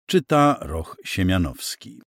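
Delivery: plain reading voice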